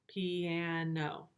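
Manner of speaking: piano said in three clear beats; pi-a-no, each beat marked; slow piano in three parts; syllable demo. Shown as a demonstration. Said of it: "say the word piano out loud".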